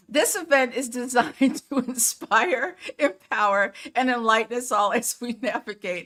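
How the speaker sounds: laughing through words. Host opening day three of a midlife symposium live, laughing while talking. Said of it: "I'm laughing at myself".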